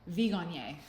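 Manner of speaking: Viognier said with a hard G; mistaken pronunciation. Shown as a demonstration. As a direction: say Viognier as "vee-GON-yay". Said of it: "I thought it was Vigo".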